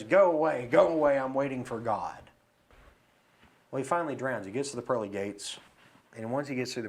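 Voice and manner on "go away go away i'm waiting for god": louder acted dismissal; drowning man refusing. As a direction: wave off the rescuers, mock insistent. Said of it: "And he says".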